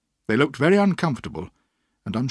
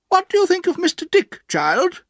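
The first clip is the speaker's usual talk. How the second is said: put-on high, brisk old-lady voice; stern old aunt; 7 dB louder than usual. A narrator's reading. Aunt orders the boy put to bed, high and brisk. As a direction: play the bossy aunt deciding.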